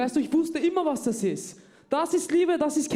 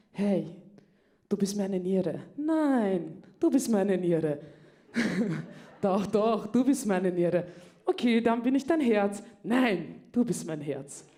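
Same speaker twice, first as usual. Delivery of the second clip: mock lovey couple; 4 semitones lower, slower than usual. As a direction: play a sappy couple trading endearments, giggling.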